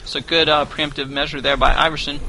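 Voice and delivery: chewing while talking; mouth full. Real, not acted. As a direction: talk through bites of apple. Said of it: "as I'm chewing on some apple slices".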